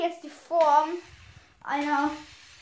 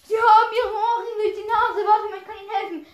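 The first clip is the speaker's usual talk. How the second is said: higher, louder, speeding up at the end; eager offer; 5 semitones higher, 7 dB louder, faster than usual. Acted. Offering help with the nose ring, eager and loud. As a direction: jump in to help in a raised voice.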